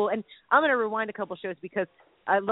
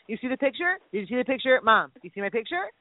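put-on pestering child; 4 semitones higher than usual. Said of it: "like, four and five and six times".

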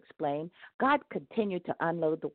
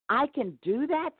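grinning; 10 semitones higher than usual. A narrator's reading. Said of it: "grinning from ear to ear".

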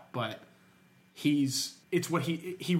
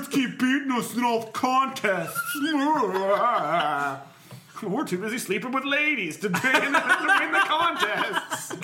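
put-on frat boy whine; 6 semitones higher, 4 dB louder than usual. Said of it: "they're like".

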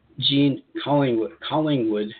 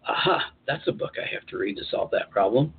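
breathless eureka. Retold or imitated. Imagined eureka at bookstore.

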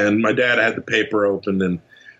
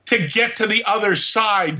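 high clicking alien laugh through the punchline; 8 semitones higher than usual. Pretend. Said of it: "I laugh with my alien voice".

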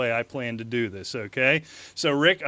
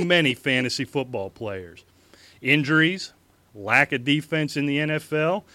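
mock campaign speech. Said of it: "Thank God you're not reading that".

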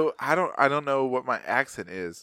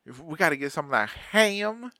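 mock twang; 6 semitones higher than usual. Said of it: "my daughters have the twang bad".

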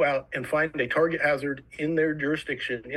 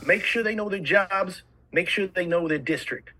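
loose, hammed-up Boston accent; 3 semitones higher than usual. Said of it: "I always do a bad Boston accent when I do it".

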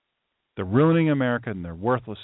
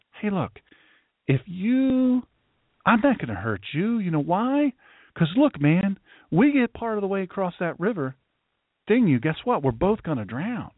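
lightly acted persuasion, pitched up; arguing scorpion; 5 semitones higher than usual. Scorpion talks a wary frog into it, lightly voiced arguing. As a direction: make the scorpion's case, a little higher. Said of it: "But the scorpion argues".

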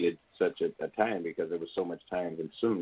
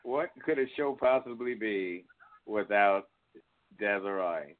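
put-on Australian accent; 3 semitones higher than usual. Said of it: "Said in Australian accent".

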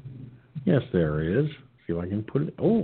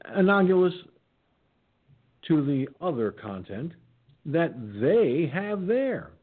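yawning; 6 semitones higher than usual. Real, not acted. Reading through a yawn.

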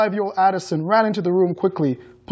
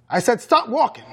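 higher-pitched, insistent order; roared command; 6 semitones higher than usual. A narrator's reading. Mother ordering her son to halt, mild roar. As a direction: repeat the command more forcefully, pitch raised. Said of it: "she roared".

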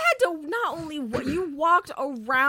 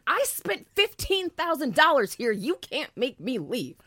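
mock Karen; 2 semitones lower than usual. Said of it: "Karen energy".

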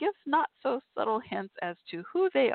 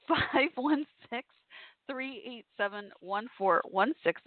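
slow phone number; 3 semitones higher, slower than usual. Shown as a demonstration. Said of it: "if my dog will let me talk".

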